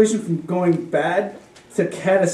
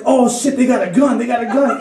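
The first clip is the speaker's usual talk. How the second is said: high-pitched alarmed warning, retold; mock panic; 5 semitones higher than usual. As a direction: imitate someone alerting the room to danger. Someone panics at supposed gun.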